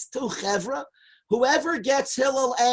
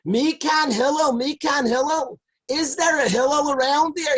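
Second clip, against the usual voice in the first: screaming again; 4 semitones higher than usual. Retold or imitated. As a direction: shout it up the street, high. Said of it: "he starts screaming again".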